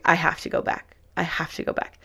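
urgent whisper to yourself; whispered self-talk. Retold or imitated. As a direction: hiss it under your breath as if nobody should hear. Frantic inner voice at apartment steps.

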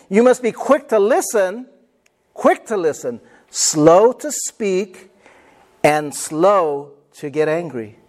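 slow, measured verse recitation with weighty pauses; deliberate repetition. Shown as a demonstration. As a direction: draw out each phrase so it can be memorized. Repeats verse to be memorized.

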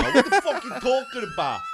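high-pitched mock tough guy; hammed-up indignant comeback; mock angry challenge. Kid in band shirt confronts his heckler, mock-angry.

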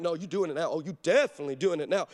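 low, unyielding retold dad; imitated stern dad; firm refusal. Dad refusing his crying daughter.

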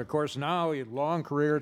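ordinary talk, nothing marked

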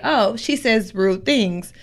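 drawn-out imitation of a new acquaintance; mock observer. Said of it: "you be like".

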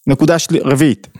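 ordinary talk

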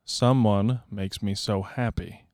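slow, drawn-out sentence; slow deliberate. Shown as a demonstration. Guest performing the line on request, slowly. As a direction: take your time on every word. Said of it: "say it in a complete sentence".

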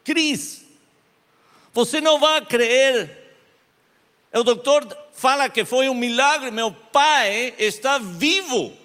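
high, loud, excited call; overjoyed news. Retold or imitated. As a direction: burst out with the miracle news. Friend calls with miracle news.

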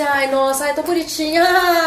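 mock-sweet, rising toward the end; sugary fake compliment hiding a curse; a hint of sarcastic cooing; ironic sweetness.

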